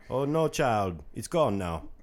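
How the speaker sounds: lightly voiced TV psychic; hint of a psychic handing down a reading; playful mock fortune-teller; Miss Cleo. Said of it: "have any Miss Cleo feelings".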